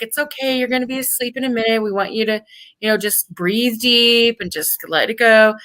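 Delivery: calm a scared patient, lightly voiced; soothing doctor voice.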